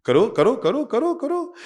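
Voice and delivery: preacher rallying the crowd to throw; rousing call. Real, not acted. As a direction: whip the hall up, each करो climbing. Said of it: "करो तो यूं".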